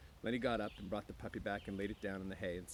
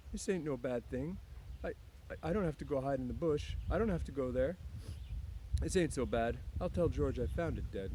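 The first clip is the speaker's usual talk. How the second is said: Lenny voice; 5 semitones higher than usual. Acted. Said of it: "He said".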